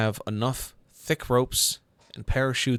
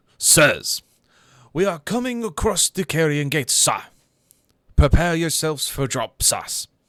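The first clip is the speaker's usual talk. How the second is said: gruff, raised announcement voice; 6 semitones higher, 5 dB louder than usual. Narrating a story, the navigator announces over the intercom in a gruff navigator voice. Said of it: "the gruff voice of the navigator coming across saying".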